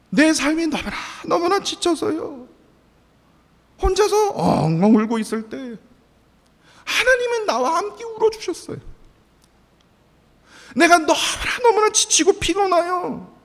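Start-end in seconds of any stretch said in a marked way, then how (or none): none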